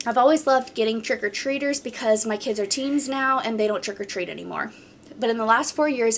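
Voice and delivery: even, flowing reading of a post; story read-aloud. Acted. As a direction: read the account straight through, steadily. Reads a submitted story aloud.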